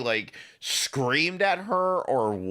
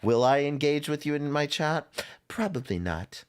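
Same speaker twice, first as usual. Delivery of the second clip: mock stoic queen. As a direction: imitate her cool dismissal. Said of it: "she is the stoic queen now".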